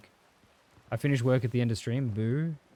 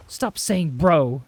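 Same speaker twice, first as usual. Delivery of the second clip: slow, louder stern grandma; mock stern grandma telling off her grandson; scolding grandma; 2 semitones higher, 6 dB louder, much slower than usual. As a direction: drag it out like a nagging grandma. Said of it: "their grandma's like".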